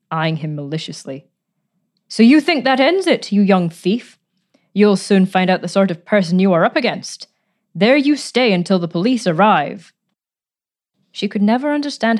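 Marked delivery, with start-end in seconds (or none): 2.1-9.9 menacing. Acted. Aunt threatens trapped young man.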